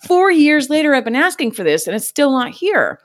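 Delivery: mock outraged customer rant; mock indignant rant. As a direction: whine like a fed-up customer. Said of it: "I've probably been like".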